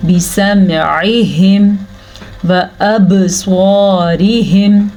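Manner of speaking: slow chant with a bounce on बा; qalqala. Shown as a demonstration. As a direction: give बा a little jolt. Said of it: "बा के ऊपर कलकला होगा".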